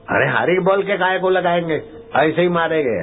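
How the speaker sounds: high, fast scornful snap; scornful retort. Retold or imitated. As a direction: scoff at the very idea. (हिकारत भरा ऊँचा तेज़ जवाब)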